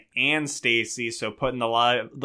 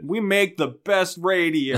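big, slow DJ announcer voice; radio DJ voice; 6 semitones higher, 4 dB louder, slower than usual. Retold or imitated. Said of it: "DJ Carly Q voice".

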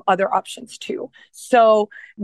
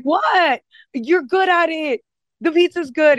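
mock innocent teasing; 7 semitones higher than usual. Retelling teasing the chef friend.

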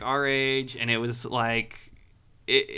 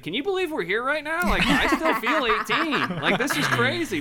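amazed stage banter, pitched up high; Mark; 11 semitones higher, 3 dB louder than usual. Retold or imitated. Singer to the crowd between songs, mock amazement. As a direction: imitate a singer marvelling to the crowd, high and hammed-up.

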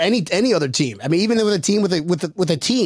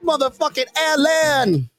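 hype build; 4 semitones higher than usual. Real, not acted. Hyping up quarterback Josh Allen.

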